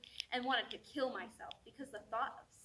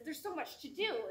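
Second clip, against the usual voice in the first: mildly anxious, raised pitch; fretting, slightly urgent; voice of anxiety; 4 semitones higher, 3 dB louder than usual. Acted. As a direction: let a touch of worry lift the voice. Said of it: "The anxiety says".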